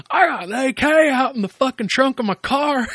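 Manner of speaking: high mock Southern redneck brag; redneck boast. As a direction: show off your gun like a wild hillbilly. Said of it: "And he's like".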